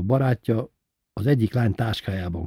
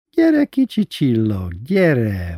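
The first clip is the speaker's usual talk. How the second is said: slow, high, smiling coaxing; 4 semitones higher, 6 dB louder, much slower than usual. A narrator's reading. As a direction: lure them over with a drawn-out, smiling call. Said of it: "mondta mosolyogva".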